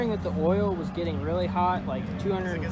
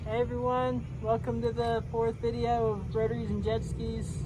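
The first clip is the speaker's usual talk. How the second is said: higher, louder intro at the track; loud over track noise; 6 semitones higher than usual. Real, not acted. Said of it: "Don't even know if y'all can hear me".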